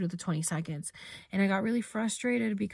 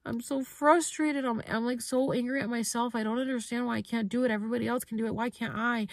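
higher, strained retelling of tearful frustration; lightly voiced tearful self-reproach; retold frustrated crying; 4 semitones higher, faster than usual. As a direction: relive the moment of crying on the mat, pitched up. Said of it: "And so then I just started crying".

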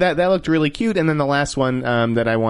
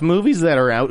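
voice cracking; 4 semitones higher, 3 dB louder than usual. Real, not acted. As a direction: voice breaks mid-phrase. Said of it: "Ooh, my voice just cracked".

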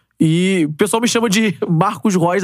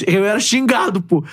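ordinary talk, nothing marked

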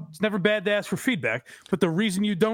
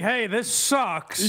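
slow deadpan; 3 semitones higher, much slower than usual. Retold or imitated. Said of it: "You're not like".

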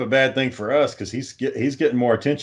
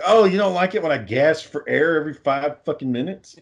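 mock-innocent jab, higher than usual; sarcastic comeback; 4 semitones higher than usual. Passenger gets even after gasping at the driver, sarcastic. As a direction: throw the complaint back with sarcasm. Retold payback jab at partner.

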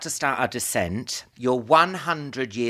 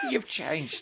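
laughing; 4 semitones higher, 4 dB quieter than usual. Real, not acted. Teasing through laughter.

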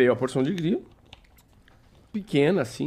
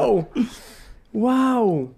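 mock amazement; 8 semitones higher than usual.

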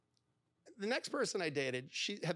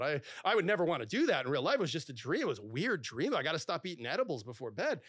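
mock disgust; 4 dB louder than usual. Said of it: "Oh my God, that's disgusting".

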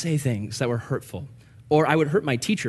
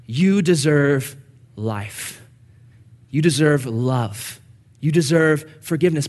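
tender father. Pretend. God speaks tenderly to Adam.

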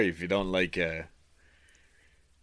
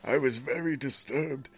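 dramatic storytelling read, higher than usual chat; story narration; 5 semitones higher than usual. A narrator's reading. Reader tells friend a creepy bird tale, dramatic narration. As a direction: read the creepy diary aloud with relish.

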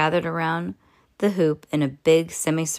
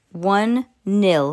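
shouted; 3 semitones higher, 5 dB louder than usual. Acted. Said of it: "he shouted".

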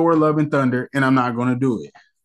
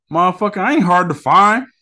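louder, menacing Rock threat; tough-guy threat; 4 semitones higher, 5 dB louder than usual. Retold or imitated. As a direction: growl it like an action hero.

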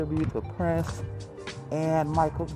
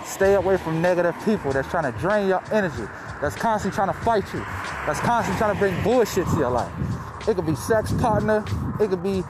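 talking through a face mask; muffled behind a mask; 4 semitones higher than usual. Real, not acted. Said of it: "If I sound a little muffled".

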